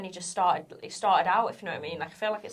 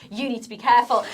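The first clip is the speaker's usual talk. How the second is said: louder, higher mock telling-off; raised-voice warning, retold; retold shouted warning; 3 semitones higher, 6 dB louder than usual. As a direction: imitate someone shouting a stern warning. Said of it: "he probably shouted at me".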